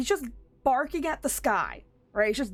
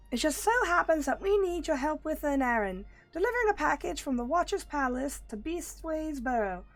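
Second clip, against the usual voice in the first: squeaky rabbit voice, much higher; high-pitched Loporrit voice; 5 semitones higher than usual. Acted. Rabbit creature urging the hero to hurry, high-pitched.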